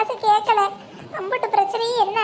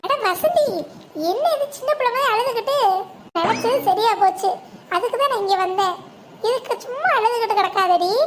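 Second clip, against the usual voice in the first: laughing tease. Acted. Friend laughing at the crying woman to cheer her up.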